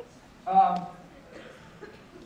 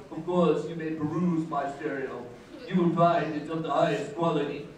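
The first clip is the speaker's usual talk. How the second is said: pompous, slightly lowered snob voice; Scott; 2 semitones lower than usual. Retold or imitated. College rival allowing a look at his stereo, pompous. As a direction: grandly grant permission as a stuffy rival. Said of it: "he would talk like this about it".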